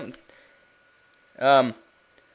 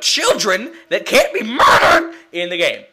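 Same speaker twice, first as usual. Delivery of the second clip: outraged cry; 5 dB louder than usual. Real, not acted. Outraged at game.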